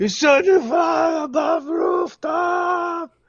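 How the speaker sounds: shouting. Playing a character calling back to a ship: yelling back to the ship. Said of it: "What are you yelling?".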